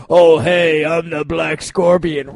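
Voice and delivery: a hint of a big villain voice, slow; mock big deep voice. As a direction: lightly play the hammy masked villain. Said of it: "they had this big, deep voice".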